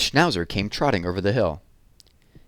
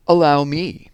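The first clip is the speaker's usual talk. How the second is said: a higher, louder gallant horse stepping in; proud offer; 7 semitones higher, 7 dB louder than usual. Acted. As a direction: step up grandly to help. Plow horse offers help.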